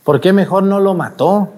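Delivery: a hint of a small boy questioning grandma; lightly voiced child. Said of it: "yo le hice una pregunta a mi abuelita".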